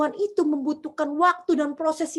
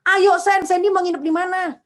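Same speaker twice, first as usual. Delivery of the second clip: higher, louder insistence; eager urging; 4 semitones higher, 4 dB louder than usual. Retold or imitated. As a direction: keep pressing her to come along. General urging her to come.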